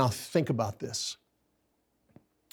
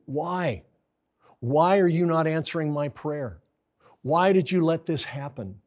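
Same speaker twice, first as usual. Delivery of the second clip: higher, pleading questions to God; desperate prayer; 3 semitones higher than usual. Retold or imitated. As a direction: ask God why, hurt and pleading. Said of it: "what we're saying when we wonder".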